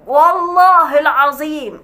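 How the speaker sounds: slow, drawn-out mock oath; hammed-up imitation of his swearing. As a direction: drag out والله العظيم like a solemn swear. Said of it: "بتحلف بالله".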